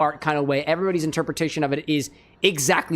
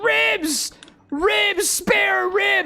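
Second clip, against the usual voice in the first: very high, very slow, drawn-out shrieking scream. Retelling a skeleton puppet joke from a video: imitating a scream. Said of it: "And he screams".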